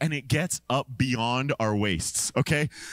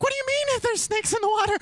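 much higher and faster, panicked squeak; voice jumps up two octaves; faster than usual. Retold or imitated. Pastor recalling his panic at the snake question, squeaky high. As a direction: let the courage drain into a high yelp. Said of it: "my deep voice raised two octaves".

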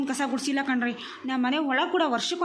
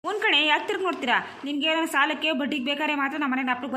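higher, sharp comeback; sarcastic angry retort; 3 semitones higher than usual. Acted. Woman snaps back at the neighbour who denies dumping rubbish, angry and higher. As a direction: fire it back at her, pitch up.

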